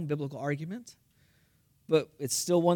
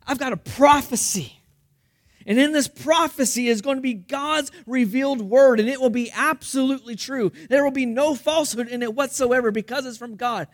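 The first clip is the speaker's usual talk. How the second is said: raised, higher preaching voice; bold proclamation; 6 semitones higher, 6 dB louder than usual. Acted. Missionary proclaims his prophecy to the town, bold and loud. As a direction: announce it with full conviction.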